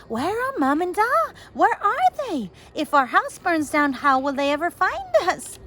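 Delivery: high, loud tearful pleading with little real sob; a frightened child near tears; understated sobbing cry; mild sobbing. Acted. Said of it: "Eilish sobbed".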